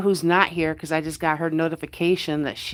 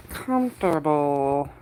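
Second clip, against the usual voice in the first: cozy; 4 semitones lower, slower than usual. Real, not acted. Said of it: "comfortable (drawn out cozy)".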